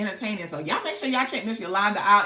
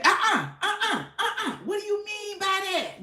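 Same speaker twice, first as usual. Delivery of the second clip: high, laughing mock of the host; repeating the host's line while cracking up; laughing imitation; 11 semitones higher than usual. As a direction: try to say it through laughter.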